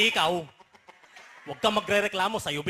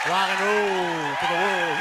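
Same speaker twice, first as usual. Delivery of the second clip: rock star catchphrase; 3 dB louder than usual. Acted. Comic capping a joke for the crowd, rocker catchphrase. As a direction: call it out like a rock singer.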